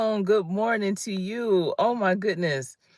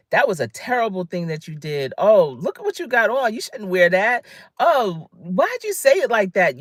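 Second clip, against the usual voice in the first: mock scolding; 5 dB louder than usual. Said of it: "But when people say".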